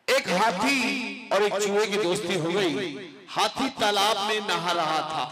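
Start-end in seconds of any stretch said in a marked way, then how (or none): 0.1-3.1 slow storytelling. Shown as a demonstration. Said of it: "ध्यान से सुनिएगा".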